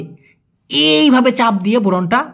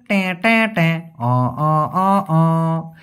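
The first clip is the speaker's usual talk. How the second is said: button beeps; much slower than usual. Shown as a demonstration. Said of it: "বাটনে press করি না".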